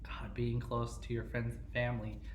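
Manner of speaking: whispered mock remorse; sarcastic whisper. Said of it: "that was my best attempt at sarcasm".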